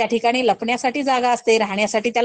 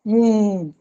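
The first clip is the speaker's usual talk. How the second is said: cow moo. Shown as a demonstration. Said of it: "काऊचा आवाज कसा असतो".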